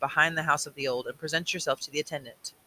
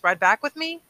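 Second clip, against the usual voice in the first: calling out; 9 semitones higher, 7 dB louder than usual. Acted. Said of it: "he called".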